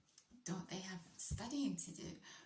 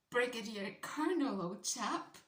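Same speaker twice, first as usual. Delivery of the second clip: put-on much louder, higher, pompous old-colonel voice; mock posh officer; 5 semitones higher, 8 dB louder than usual. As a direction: boom it like a stuffy British officer. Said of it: "No, I didn't say that either".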